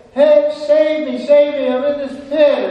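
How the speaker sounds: very high, loud shout for rescue; calling out. Acted. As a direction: yell up desperately from a pit. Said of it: "he calls out again".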